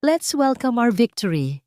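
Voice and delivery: loud gloating toast; boastful. Acted. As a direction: crow about the win. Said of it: "puno ng pagmamayabang".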